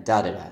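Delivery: da, da, da with an unstressed third beat; stress pattern demo. Shown as a demonstration. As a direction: tap out "da, da, da" as strong-weak-weak. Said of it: "The third syllable doesn't have a stress".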